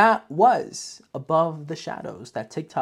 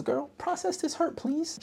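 mock sassy plea. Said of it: "literally what my next note says".

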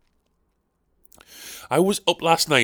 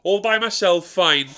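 martyred whinge; 4 semitones higher than usual. Acted. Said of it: "instead of just saying".

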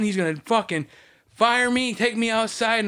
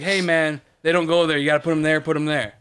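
friendly first warning; 2 semitones lower than usual. Shown as a demonstration. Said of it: "the first time, it's like".

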